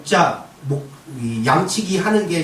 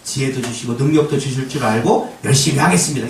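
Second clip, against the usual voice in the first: humble acceptance; 6 semitones lower than usual. Retold or imitated. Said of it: "이래야 되는 거예요".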